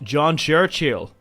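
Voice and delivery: accidental American accent on the name; slow, American-accented announcement of a name. Real, not acted. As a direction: slip into American on CHURCHILL. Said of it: "said Churchill with an American accent".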